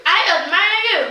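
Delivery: high, loud answering call; echo. A narrator's reading. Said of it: "the voice answers".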